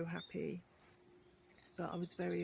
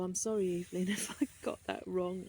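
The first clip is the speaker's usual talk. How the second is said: sheepish laugh through the apology; a sorry with a small laugh in it; 4 dB louder than usual. Real, not acted. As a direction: laugh it off while saying sorry.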